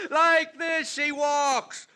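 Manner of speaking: drawn-out, mocking the girl's walk; slow mockery. Alex taunting Leo about the niece, slow mockery. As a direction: savour each word with contempt.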